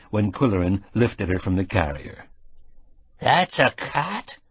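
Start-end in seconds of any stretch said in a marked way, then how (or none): 3.2-4.4 put-on high, slow, wondering old farmhand; slow and high with a resonant twang; strange old man's voice. A narrator's reading. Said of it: "in a strange voice".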